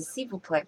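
"s'il vous plaît" ending on an open pleh, T silent; French with a silent final T. Shown as a demonstration. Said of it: "记得不要发T的音".

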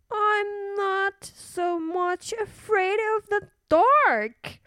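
put-on high, childlike little princess; a small girl asking to keep her light on. A narrator's reading. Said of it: "said the little princess".

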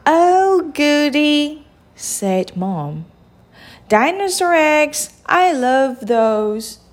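high, mildly thrilled voice; delighted mom. Acted. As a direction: show a child how yummy it is. Mom delighted about breakfast eggs.

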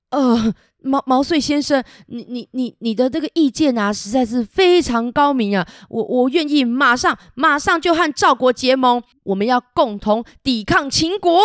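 high, faltering praise from a shaken king; humbled king stammering his agreement; stammering nervous king. Acted. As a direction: stumble over the words, intimidated.

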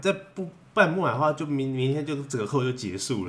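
pushy salesman, high and loud; hard sell ad. Retold or imitated. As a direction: rush them into buying now. Mock salesperson pushing last stock.

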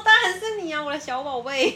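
put-on high, loud baby-talk coo; lavish love on your little treasure; playful mother cooing; doting coo. Mother coos to her son.

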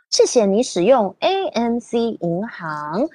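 Mandarin robot reading. Pretend. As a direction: stiff machine voice in Chinese. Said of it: "I'm trying to use the Chinese version of the robot voice".

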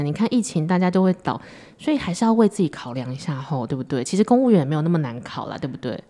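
lightly voiced pushy well-wisher; humble know-it-all. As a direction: nudge gently with a hint of concern. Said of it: "我当那个模拟那个谦虚的情勒者".

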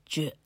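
j read like the letter's English consonant, "juh"; wrong j sound. Retold or imitated. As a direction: imitate the teachers' mistaken "juh" for j. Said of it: "他们的老师呢，都把它念作".

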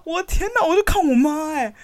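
ordinary talk

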